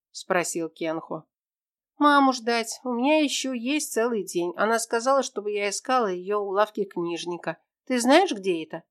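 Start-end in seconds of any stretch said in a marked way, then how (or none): 2.0-8.8 put-on higher, childlike girl's voice; lightly voiced young girl asking her friend; little girl Tera. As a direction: play a small lost girl, hopeful.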